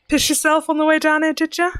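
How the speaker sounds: a light soft Cockney with a mocking laugh; laughing Cockney jeer, lightly done. Ceridwen mocking the soiled prisoner, laughing soft Cockney. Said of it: "A soft Cockney accent".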